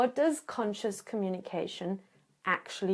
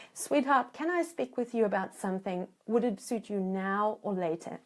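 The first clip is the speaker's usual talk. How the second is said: gentle request; 3 dB quieter than usual. Shown as a demonstration. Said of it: "You make an appointment and you say".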